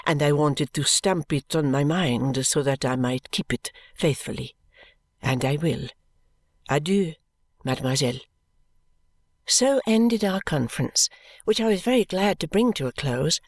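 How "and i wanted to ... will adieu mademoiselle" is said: smiling. A narrator's reading. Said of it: "she said, smiling".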